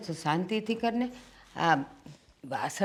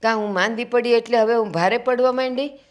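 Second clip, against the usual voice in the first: raised, wounded plea; hurt protest; 4 semitones higher, 6 dB louder than usual. Acted. Sick mother-in-law protesting to her daughter-in-law, hurt. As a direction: protest as if stung by her words.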